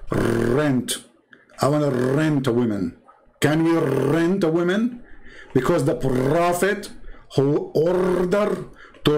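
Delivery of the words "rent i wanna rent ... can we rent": "Rent." with a light Russian-accented rolled R; mild Russian accent on "Rent.". Shown as a demonstration. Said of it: "This is how they say it in Russia".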